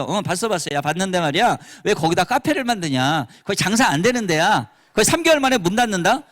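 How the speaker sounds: know-it-all husband. Retold or imitated. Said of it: "막 컨설팅까지 막 해줘".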